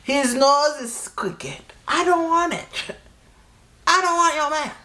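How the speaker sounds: high, slow, scornful put-down; a mocking high voice turning down someone's man; mocking high dismissal. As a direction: look down your nose and sing it high. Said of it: "I said".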